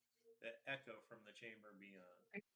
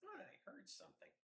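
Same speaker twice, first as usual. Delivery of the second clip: nervous squeaky goblin; 5 dB quieter than usual. Acted. Nervous goblin hears something.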